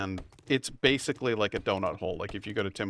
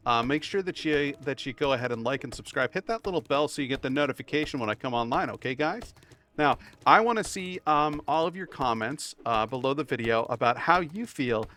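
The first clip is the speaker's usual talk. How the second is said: high, bright hype host voice; peppy clickbait channel host; YouTuber voice; 4 semitones higher than usual. Pretend. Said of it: "that's not even my YouTuber voice".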